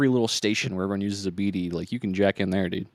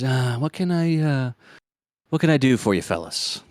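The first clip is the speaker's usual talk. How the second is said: gruff tough woman; 3 semitones higher, 4 dB louder than usual. Acted. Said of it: "she kinda has, like, a gruff voice".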